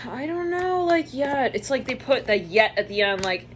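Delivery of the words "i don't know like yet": sighing, high and slow stalling; hesitant answer. Retold or imitated. Leo cornered about being in love, hesitant. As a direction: draw it out reluctantly after a sigh.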